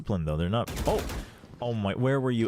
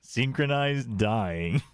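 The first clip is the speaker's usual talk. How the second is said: very slow dry comment; slow deadpan; much slower than usual. Real, not acted. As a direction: drag it out, dry. Deadpan remark on team death.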